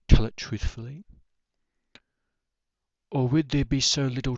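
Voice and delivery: solemn, subdued poetry reading; poem recitation. Acted. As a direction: recite a reflective poem with even, measured phrasing. Recites own poem on death.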